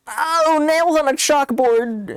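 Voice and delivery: high, whiny mock complaint; hammed-up offended listener; mock disgusted viewer. Streamer imagining viewers mocking her voice, high whine. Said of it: "they're gonna be like".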